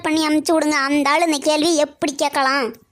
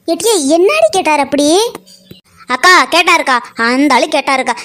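loud outraged yell, much louder; furious shouting; 4 dB louder than usual. Acted. Woman yelling at the polling officer, furious. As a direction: scream at him in fury. Women's ongoing angry tirade.

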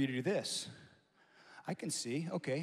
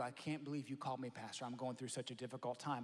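quoting a caller; 4 semitones lower, 7 dB quieter than usual. Retold or imitated. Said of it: "they'll go".

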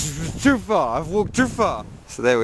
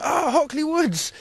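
high, slow, excited blurt; the name suddenly pops back into your head; sudden recall. Retold or imitated. Vlogger retelling blurting it to Italian friends, high excited recall. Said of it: "I was just like".

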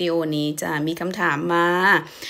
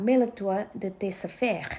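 slow demo; 6 dB quieter, much slower than usual. Shown as a demonstration. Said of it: "หรือจะพูดว่า".

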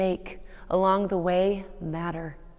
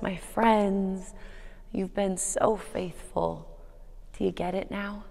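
tender farewell; 7 dB quieter, slower than usual. Retold or imitated. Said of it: "with tears in his eyes".

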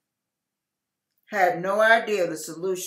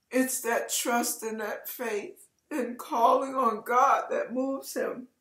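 teary; 4 semitones higher than usual. Real, not acted. Pastor urging viewers to trust God, teary. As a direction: let the tears come through. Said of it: "I'm getting emotional".

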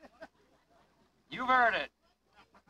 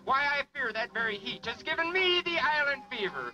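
booming showman announcer. Acted. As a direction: sell it to the crowd like a showman. Announcer in pirate persona.

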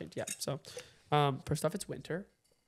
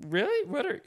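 incredulous; 5 semitones higher than usual. Retold or imitated. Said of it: "I was like".

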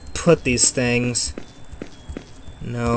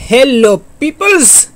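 excited greeting; 10 semitones higher, 5 dB louder than usual. Real, not acted. Cheery return from jump cut.

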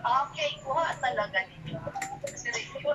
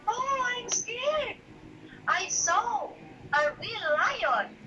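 mock scared; 8 semitones higher than usual. Shown as a demonstration. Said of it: "How will you say it?".

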